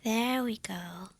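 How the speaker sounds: slow, unvoiced whisper; whispering as the listener drifts off; soft whisper. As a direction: hush them gently to sleep. Lulling the listener to sleep.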